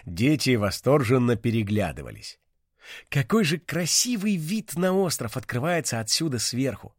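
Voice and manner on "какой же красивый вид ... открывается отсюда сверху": amazed, lifted voice; surprised exclamation. Acted. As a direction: gasp at the view. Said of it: "удивлённо воскликнул".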